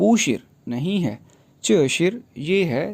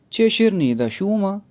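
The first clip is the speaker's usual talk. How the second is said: higher, lively question voice; reading Chinese dialogue; 5 semitones higher than usual. Shown as a demonstration. Teacher reading Mating's question from the text. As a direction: read the Chinese line up and bright as a question. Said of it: "text है".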